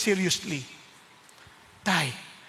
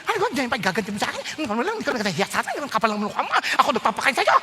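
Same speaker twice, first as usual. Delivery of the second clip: fast, mock-angry scolding; scolding parent; faster than usual. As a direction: rattle off a parent's rant.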